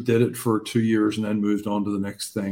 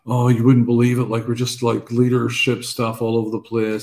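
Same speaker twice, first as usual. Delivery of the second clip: louder, harried complaining; flustered young leader; 3 semitones higher, 3 dB louder than usual. Retold or imitated. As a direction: gush it out like an overwhelmed young leader.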